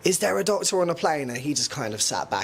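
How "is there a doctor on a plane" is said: lightly acted higher-pitched call; imitated announcement. Retelling the call for a doctor on a plane, mild announcer imitation. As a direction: lift the pitch as if lightly mimicking a cabin announcer. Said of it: "So someone announces".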